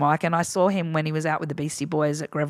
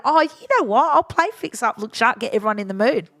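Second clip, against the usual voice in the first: excited; 4 semitones higher, 4 dB louder than usual. Retold or imitated. Retelling own cocky idea.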